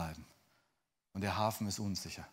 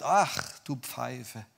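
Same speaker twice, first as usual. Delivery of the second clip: exasperated sigh of contempt; acted scornful dismissal; dismissive scorn; much slower than usual. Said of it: "links liegen lässt und sagt".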